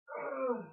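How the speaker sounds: an exasperated "ugh" to show annoyance; irritated groan. Shown as a demonstration. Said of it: "really, like, irritability kind of sense".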